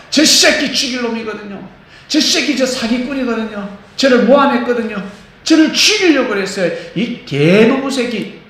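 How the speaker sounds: high, loud furious tirade against a swindler; hammed-up enraged rant, slowing on the last insult; angry cursing. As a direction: spit out the insults in a rage. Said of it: "욕하지 말고".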